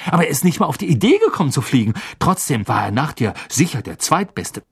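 put-on lively boy's gossip, rushing through bursts; animated, hurried eyewitness report; Ron excitedly recounting. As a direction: tumble out the story with jumps in pitch.

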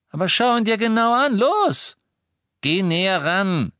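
high, loud, urgent command; highly agitated. A narrator's reading. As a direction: urge him on, beside yourself with excitement. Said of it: "noch nie so aufgeregt erlebt". (aufgeregt drängend, laut und hoch)

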